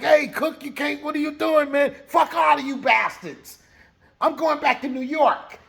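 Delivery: 高めの声で呆れて怒鳴る; 止めに入りながら叫ぶように; exasperated shout. Retold or imitated. Fonzo grabs Cookie.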